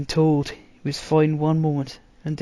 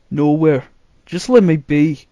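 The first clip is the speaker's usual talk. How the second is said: irritated; 8 dB louder than usual. A narrator's reading. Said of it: "he muttered in irritation".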